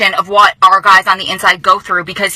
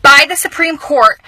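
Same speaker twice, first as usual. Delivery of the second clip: fighting back tears; 3 semitones higher, slower than usual. Real, not acted. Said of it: "I'm trying not to cry".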